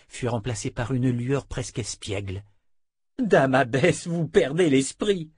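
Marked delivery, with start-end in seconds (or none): 3.2-5.3 mild exasperation. Acted. Disciple rebukes the abbess.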